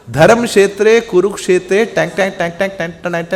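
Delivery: verse trailing into "टैंक, टैंक" filler sounds; mock recitation. Shown as a demonstration. Teacher showing listeners what not to recite, mock chanting. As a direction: rattle off nonsense syllables after the verse. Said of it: "नहीं करना".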